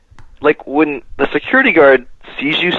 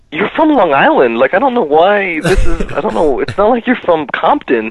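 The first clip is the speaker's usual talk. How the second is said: teasing retort; 5 semitones higher than usual. Retold or imitated. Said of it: "I was like".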